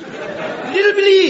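hammed-up tiny voice; high-pitched call. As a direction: squeak the name up high. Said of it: "at least in a high-pitched voice".

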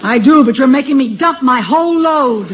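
exasperated complaint; mildly worked-up grumble; mad, at wit's end. Acted. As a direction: patience running out. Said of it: "why are you getting mad".

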